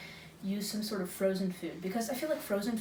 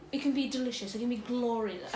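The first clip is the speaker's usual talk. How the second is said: light British lilt on "glorious"; British accent; 3 semitones higher than usual. Acted. Judge praising bear meat in a slight British accent. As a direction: slip into a posh British accent. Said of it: "I slipped into a British accent".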